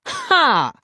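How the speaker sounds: high, scornful shout. A narrator's reading. Sister up close to brother's face, shouting. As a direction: shout it right in his face. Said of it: "shouted it again".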